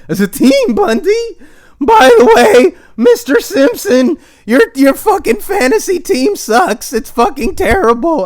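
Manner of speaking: very high, loud cartoon boy voice, laughing; cartoon kid voice. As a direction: squeak it out like a cartoon brat. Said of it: "I sound like that kid from The Simpsons".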